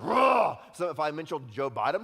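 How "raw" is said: loud, high growling roar; mock angry roar. Preacher mimics churchgoers hearing a name, loud mock roar. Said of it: "some of you are like".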